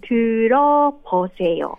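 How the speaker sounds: 들어보세요 said tɯɾo-po-se-jo, stress on 어 rising; Korean model phrase. Shown as a demonstration. Teacher showing the radio host the line, clear model. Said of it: "うん".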